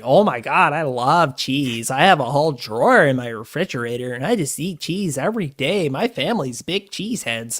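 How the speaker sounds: light mock Wisconsin accent with a stretched-out "love"; imitating a Wisconsin accent. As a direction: gush about cheese in a lightly put-on Wisconsin accent. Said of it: "the Wisconsin accent".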